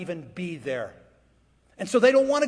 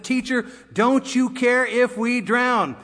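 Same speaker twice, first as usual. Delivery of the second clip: raised, slow, emphatic protest; alarmed plea; 3 semitones higher, 5 dB louder, slower than usual. Acted. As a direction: plead loudly as a worried disciple. Disciples wake Jesus in storm.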